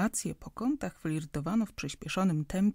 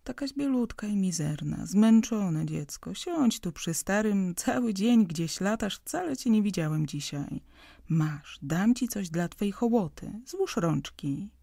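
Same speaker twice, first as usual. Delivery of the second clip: tender fatherly; 2 semitones higher, 3 dB louder than usual. Acted. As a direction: gently coax a tired daughter to sit. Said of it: "spojrzał serdecznie".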